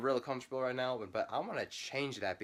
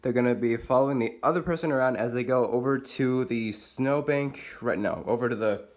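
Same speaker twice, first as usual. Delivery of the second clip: loud over the wind; 7 dB louder than usual. Real, not acted. Explaining outside in the wind.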